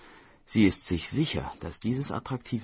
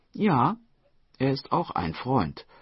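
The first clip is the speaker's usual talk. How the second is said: cheerful reply; 6 semitones higher, 5 dB louder than usual. Acted. Daughter answers mother's questioning.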